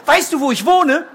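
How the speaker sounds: high, small bird voice; little bird voice. Acted. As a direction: ask like a tiny shy bird. Little bird asks donkey.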